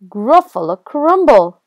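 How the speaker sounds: loud, emphatic, falling at the end; menacing announcement. Acted. Mouse threatens the Gruffalo, loud and emphatic. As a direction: announce the dish as a bold threat.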